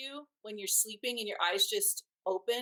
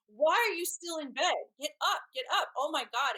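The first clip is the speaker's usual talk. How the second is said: retold yelling; 6 semitones higher than usual. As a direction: act out the boyfriend shouting her awake. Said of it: "he's yelling at me".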